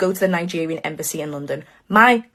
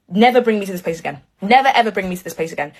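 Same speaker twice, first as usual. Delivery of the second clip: diva declaration; faster than usual. Retold or imitated. Speaker tells dad off, diva moment.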